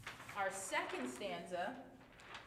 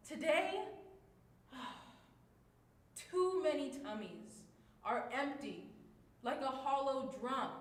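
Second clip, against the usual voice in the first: sad; 4 dB louder than usual. Shown as a demonstration. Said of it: "using all of our different emotions".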